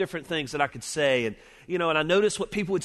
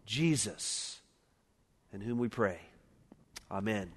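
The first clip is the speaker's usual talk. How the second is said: prayer. Acted. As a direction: pray it earnestly, then let it sink to a hush. Pastor prays before sermon.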